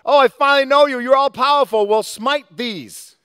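high, loud, eager voice of a brand-new convert; hammed-up joyful convert; mock gushing new believer. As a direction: play the naive believer thrilled and asking for revenge. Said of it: "That's not the first words out of your mouth".

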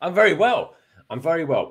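mild attempt at an Irish accent. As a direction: try out an Irish accent, held back. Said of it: "trying to do some sort of barking Irish accent".

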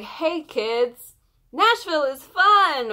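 excited call, rising to a high, loud shout; a pop singer. Retold or imitated. Fan mimicking the singer greeting another tour city, high excited shout. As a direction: build from a lively hail to a high cheer. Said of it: "can't wait to hear her go".

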